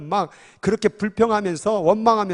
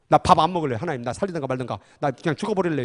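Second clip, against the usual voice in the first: sulky hunger striker; 4 semitones lower, faster than usual. Retold or imitated. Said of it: "단식 투쟁 하는 거예요?".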